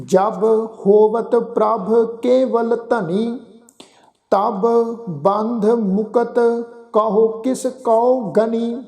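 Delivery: slow, measured scripture recitation; gurbani recitation. Acted. Granthi reciting Sukhmani Sahib to the sangat, slow and measured. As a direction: recite each phrase with pauses, devoutly.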